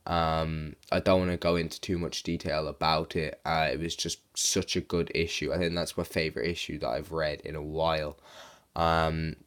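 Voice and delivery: hoarse, sick-sounding voice; sore throat voice. Real, not acted. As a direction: speak through a sore throat. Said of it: "sorry if I sound sick".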